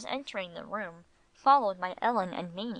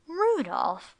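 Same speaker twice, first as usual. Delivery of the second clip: high, loud exclamation of the name; amused exclamation; 8 semitones higher, 5 dB louder than usual. A narrator's reading. Wife turns on her husband, exclaiming in amusement. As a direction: cry out the name in mock reproof.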